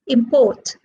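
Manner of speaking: "Import" said im-PORT; stress on second syllable. Shown as a demonstration. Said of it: "are stressed on the second syllable".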